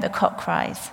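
hushed whisper, misspeaking cries; whispered slip. Real, not acted. Preacher whispers the rooster moment, wrong word first. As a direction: whisper the cock cries, then catch it. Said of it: "The cock crows".

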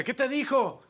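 high, loud imitation of Israeli groom; eager demand in an Israeli accent. Israeli groom asks what God answered, Israeli accent. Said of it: "con su acento así padrísimo".

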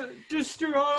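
slow high drawn-out shout; stretched shout. Real, not acted. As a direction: drag out a taunting yell. Roast reaction.

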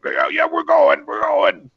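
high, loud and slow scared yelping; fleeing orcs. Acted. Orcs fleeing the riders, high frightened yelps. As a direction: cry it out while backing off fast. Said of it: "They're like".

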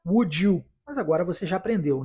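usual speaking voice

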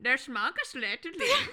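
Der schlanke Schmetterling slow, laughing through it; confident German attempt. Co-host repeats the German phrase, laughing. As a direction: imitate the teacher, laughing. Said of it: "you're really confident and you're like".

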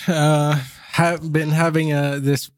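hoarse from a persistent cough; horror trailer voice. Real, not acted. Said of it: "enjoy my trailer voice".

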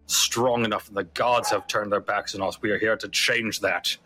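lightly voiced commander making a proclamation; a hint of a pompous officer; Tortle in charge. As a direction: declare it like a leader addressing a crowd. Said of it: "the Tortle that appears to be in charge goes".

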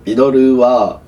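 straight-faced nasal denial; earnest official statement with a nasal voice. Shown as a demonstration. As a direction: say it seriously through the nose. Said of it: "おい、鼻声だろ".

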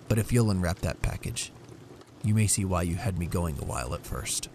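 steady and loving; Jim, reassuring. Acted.

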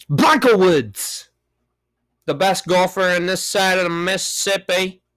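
hammed-up sports announcer intro; golf announcer. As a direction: introduce yourself like a champion. Announcing his golfer alter ego.

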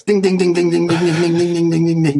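a bright, repeated bell ding; correct answer ding. Pretend. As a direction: chime ding ding like a game-show bell. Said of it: "go like this".

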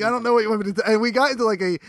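ordinary talk, nothing marked

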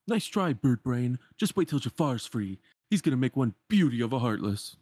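lightly voiced cartoon villain; taunting Pete. Pete mocking Iago after grabbing the lamp, taunting. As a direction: gloat like a cartoon bully.

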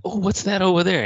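high, loud mock-surprised exclamation; feigned surprise. Retelling a trickster's diversion before he switches cups, feigned surprise. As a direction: pipe up loudly to fake a distraction.

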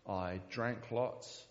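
slow, halting words as emotion rises; getting emotional. Real, not acted. Preacher to congregation, slowed and choked with emotion. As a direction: choke up over the confession to the church. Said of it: "I don't know why I'm getting emotional".

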